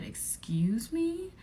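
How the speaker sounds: high, slow whispered excuse me; whispered shocked disbelief. Retold or imitated. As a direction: breathe it out in shock. Shocked at accusation.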